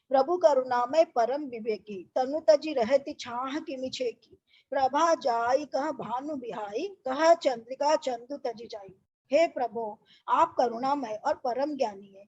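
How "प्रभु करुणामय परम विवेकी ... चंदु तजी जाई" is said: slow, measured chanting of the doha; verse recitation. Acted. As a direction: recite it like a Ramayana reading. Teacher recites Ramayana verse. (धीमा, लयबद्ध दोहा पाठ)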